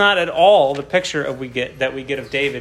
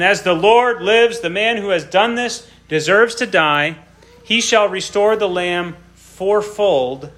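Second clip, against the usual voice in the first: mock indignant outburst; 4 semitones higher, 4 dB louder than usual. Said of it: "David's anger was greatly kindled".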